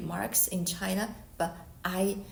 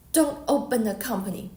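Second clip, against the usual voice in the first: a firm, louder command like a strong man; powerful voice; 2 semitones higher, 6 dB louder than usual. Retold or imitated. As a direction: lay down the order as the voice in the dream. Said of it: "powerful man's voice".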